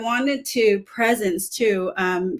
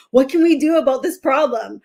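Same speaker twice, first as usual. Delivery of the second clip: consultant mode; 4 semitones higher, 5 dB louder, faster than usual. Retold or imitated. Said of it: "I go right into".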